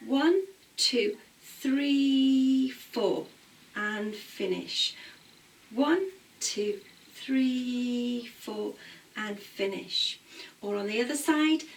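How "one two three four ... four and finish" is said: rhythmic counting with a settled "and finish"; dance class count. Shown as a demonstration. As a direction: count the class through the move. Teacher counting the accented move.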